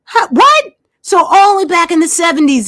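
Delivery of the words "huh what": a much higher, startled huh, what; mock incredulous; disbelief. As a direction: replay the double take. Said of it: "I was like".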